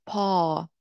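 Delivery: پا with the ā drawn out long; long-vowel پا; lengthened vowel. Shown as a demonstration. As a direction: hold the vowel of پا.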